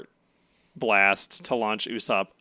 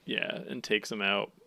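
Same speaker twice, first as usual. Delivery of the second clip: breathy hushed remark; whispered aside; 3 semitones lower, 6 dB quieter than usual. Real, not acted. Quietly finishing the fight recap. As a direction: drop to a whisper.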